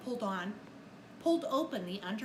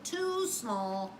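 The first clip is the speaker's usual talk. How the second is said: Santa voice; 2 semitones lower than usual. Acted. Santa's clothes don't fit.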